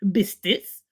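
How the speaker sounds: biscuits said as bistits, t in place of k; local pronunciation. Shown as a demonstration. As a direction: Biscuits with a t sound, bis-tits. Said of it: "not biscuits".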